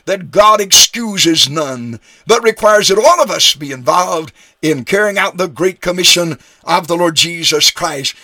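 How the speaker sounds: emphatic preaching with weight on key words; dogmatic, emphatic. Real, not acted. Preacher telling listeners God requires all to be involved, very emphatically. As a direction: declare it as settled truth, firmly stressed. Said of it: "very dogmatically, very emphatically".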